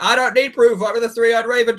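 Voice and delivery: high, smug pronouncement; mocking Bran's aloofness; mock lofty Bran. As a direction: play the aloof mystic. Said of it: "He'd be like".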